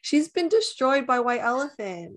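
retold dismay. Horrified onlooker watching a cousin bawl at White Elephant, retold dismay. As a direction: retell an onlooker's dramatic dismay.

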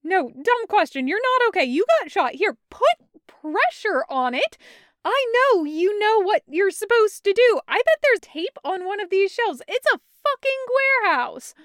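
high, loud, cracking outbursts of relief and scolding; laugh-yell at him, mad and in love at once; loud, high, overwhelmed babble, partly slowed, partly rushed; hysterical relief. Acted. Taco half-laughing, yelling relief.

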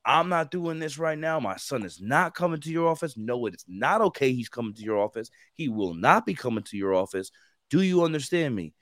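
imitating a mom snapping back, loud then firm; a fed-up mother shutting the recruiter down; mom's angry refusal.

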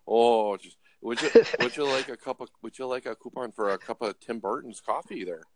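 lightly put-on Canadian accent, folksy and apologetic; flustered Canadian. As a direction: imitate a fretting, over-polite Canadian cop. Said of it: "you're up in Canada and they're like, they get upset".

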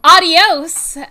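loud, bright farewell; excited goodbye. Real, not acted. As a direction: call out a happy goodbye. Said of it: "She's really excited".

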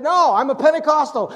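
defiant loud retort. Retold or imitated. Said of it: "He said".

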